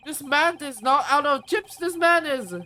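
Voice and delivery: loud, high-pitched hype; mock outrage. Real, not acted. Streamer riffing on a character out of chips, hyped exclamation. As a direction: exclaim it like a stunned fan.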